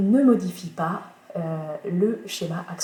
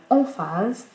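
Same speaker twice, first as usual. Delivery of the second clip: "emphase" with its first syllable leaned on; stress on first syllable; 3 semitones higher, 4 dB louder than usual. Shown as a demonstration. Teacher showing students how French emphasis sounds, first syllable of "emphase" stressed. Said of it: "parler avec emphase".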